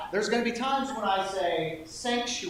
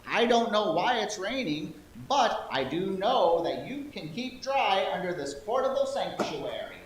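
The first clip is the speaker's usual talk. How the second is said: higher grandma voice; old lady voice; 3 semitones higher than usual. Acted. Shopkeeper telling the girl in old lady voice. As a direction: explain kindly like an old shopkeeper. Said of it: "my old lady voice".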